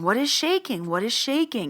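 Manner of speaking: high, insistent imitation of a baffled man; baffled retold questioning. Baffled man answering the woman about shaking, insistent and high.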